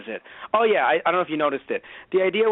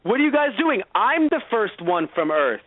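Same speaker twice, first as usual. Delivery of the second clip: indignant mock hero; 6 semitones higher than usual. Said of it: "Alan Scott appears, like".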